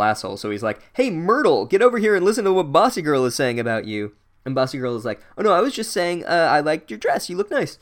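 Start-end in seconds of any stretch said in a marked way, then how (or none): 0.9-4.1 higher, louder trickster calling someone over; mock calling out. Peeves calls Myrtle over to cause trouble. 5.4-7.8 higher-pitched fake innocence; mock backpedalling. Caught out, covers with flattery.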